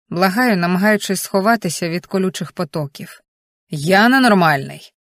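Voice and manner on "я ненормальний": loud, slow, furious husband's yell; husband yelling at his hysterical wife; furious shout. A narrator's reading. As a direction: roar it at her under the cold shower. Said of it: "шалено кричить Олександр".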